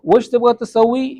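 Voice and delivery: slow, careful وش تبغى تسوي; teacher repeating slowly; slow model phrase. Shown as a demonstration. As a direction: lay out each word slowly. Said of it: "یعنی کہ تم کیا سلوانا".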